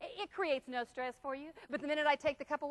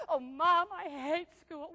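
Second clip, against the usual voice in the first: put-on whining child; much slower than usual. Child whines in acted scene.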